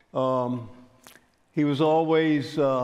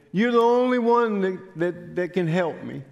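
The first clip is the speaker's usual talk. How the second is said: retold tearful begging; 5 semitones higher than usual. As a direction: imitate begging, high-pitched at first, then easing. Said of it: "started crying, and started begging".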